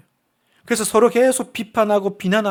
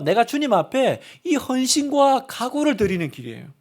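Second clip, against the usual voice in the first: usual speaking voice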